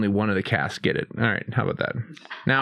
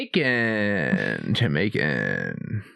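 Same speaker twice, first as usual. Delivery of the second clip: game show announcer; 6 semitones lower, much slower than usual. Shown as a demonstration. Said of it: "Accents with the host".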